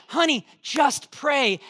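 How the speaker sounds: a hint of a slow, soothing friend; coaxing friend. Stronger girl urging her panicking friend, lightly slow and soothing. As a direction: ease her gently toward prayer. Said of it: "she goes".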